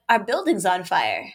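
slow, matter-of-fact alarm; mild, drawn-out delivery without panic; unpanicked neighbor. Retold or imitated. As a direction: imitate a neighbor unhurriedly reporting a fire. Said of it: "this accent that made it not sound very panicky".

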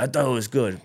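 mock deep-voiced thug rapper; Aiden. Scratched-up young man explains himself, mock thug voice. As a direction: imitate a caveman-like nineties rapper. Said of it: "He's got this deep voice".

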